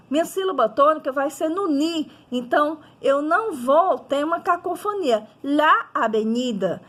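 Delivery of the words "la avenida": LA, then AVENIDA as its own word; slight break. Shown as a demonstration. Teacher showing students there is no cacophony, LA separated from AVENIDA. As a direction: keep LA and AVENIDA apart, both vowels sounded. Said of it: "percebem que existe uma certa quebra".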